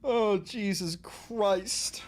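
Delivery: breathy muttered aside; exasperated whisper. Real, not acted. Streamer muttering at the clip in a whisper. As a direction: mutter it under your breath.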